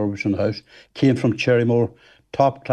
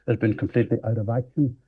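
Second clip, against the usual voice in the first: muffled mic; 3 dB quieter than usual. Real, not acted. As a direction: voice muffled by hand over mic. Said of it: "You're covering your mic with your hand".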